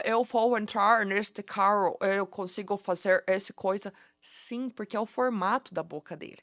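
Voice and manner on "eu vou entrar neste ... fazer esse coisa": put-on slow Portuguese in a light American accent; a mild put-on American accent, drawn out. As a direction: imitate an American speaking Portuguese slowly. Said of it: "o americano vem pra cá e fala".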